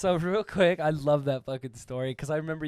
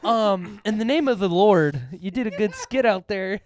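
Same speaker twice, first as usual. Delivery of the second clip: priest voice; 4 semitones higher, 5 dB louder than usual. Retold or imitated. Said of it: "He's like".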